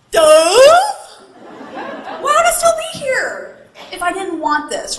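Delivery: exasperated, high-pitched retort; indignant inner voice. Acted. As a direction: throw it out like the answer is obvious. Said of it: "that voice in the back of your head".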